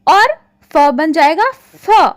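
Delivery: second फ said as f, lip on teeth; nukta sounds. Shown as a demonstration. Teacher slowly showing pupils फ turning into f. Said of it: "उच्चारण हम और ढंग से करेंगे".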